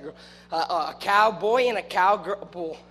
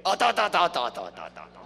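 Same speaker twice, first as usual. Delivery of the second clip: rhythmic da-da-da trailing lower; chanted da-da-da; 6 semitones lower than usual. Pretend. Preacher counting off a silly chant, rhythmic da-da-da. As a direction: rattle off a falling string of da's.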